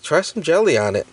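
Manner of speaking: a clumsy Southern accent, played for laughs; bad Southern accent. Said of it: "Did that accent sound better?".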